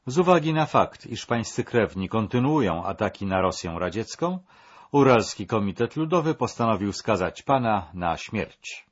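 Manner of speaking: loud repeated verdict. Acted. Yurovsky repeats the death sentence. (głośno, dobitnie powtórzony wyrok)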